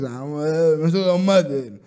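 halting, slurred dad voice; befuddled father. Acted. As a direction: fumble it like a not-quite-there dad. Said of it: "Ο πατέρας λίγο, ξέρεις".

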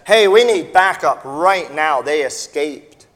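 urgent officer shouting for backup; retold yell. Policeman urging colleague to call backup, mild mock yell. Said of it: "He yells at the other".

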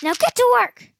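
yelling at the trapped class; furious shout. Acted. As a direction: roar the order at them. Monster teacher orders students.

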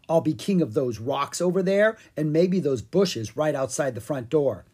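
a hint of a self-important pumpkin monarch; boastful Pumpkin King. Pumpkin King boasts of his future realm, grandly.

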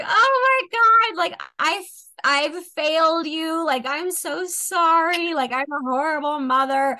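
put-on high, slow, tearful wail of a drunk mother; mock wailing mom. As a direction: imitate her wailing apology, drawn out and high. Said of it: "starts bawling her eyes out".

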